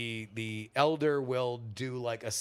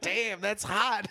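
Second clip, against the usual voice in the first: slow, higher, laughing; laughing mock voice; 7 semitones higher, slower than usual. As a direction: laugh it out slowly. Voicing the lama, laughing.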